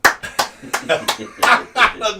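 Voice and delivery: long burst of laughter; high, amused laughing fit; real laughter. Real, not acted. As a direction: crack up at a joke. Laughs at a viewer's joke.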